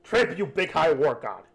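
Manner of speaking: high, loud goblin order; goblin boss insisting. Acted. Goblin boss insists on tribute, high and loud.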